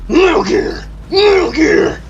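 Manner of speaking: high, loud alarmed cry; alarmed shout. Acted. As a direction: yell it in shock. Shouting the game's famous line.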